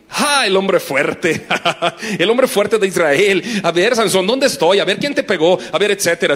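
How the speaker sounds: mock taunting jeers; mocking crowd. Crowd jeering at blind Samson, mild mockery. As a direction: tease the blind strongman. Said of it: "todos se reían".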